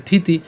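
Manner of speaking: থিতি starting straight on aspirated th; without initial s. Shown as a demonstration. Teacher eases a hard cluster, থিতি begun on th. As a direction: say থিতি alone, th then ti. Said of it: "থয়ের সাথে ত রসিক উচ্চারণ".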